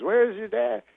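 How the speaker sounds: high-pitched comedian impression; Bill Cosby. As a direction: ask it in a high imitation voice. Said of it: "He goes".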